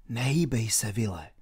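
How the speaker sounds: low, soft murmur to Will; hushed. A narrator's reading. Robin quietly warning Will at the gallows, hushed. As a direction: lean in and keep it secret. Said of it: "když se naklonil".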